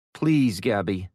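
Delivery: pleading. Acted. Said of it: "in his most pleading voice".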